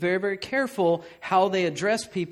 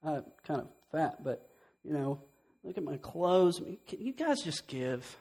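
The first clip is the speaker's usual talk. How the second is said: mock pitiful plea; 3 semitones lower, 5 dB quieter than usual. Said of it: "But I can get up here and say".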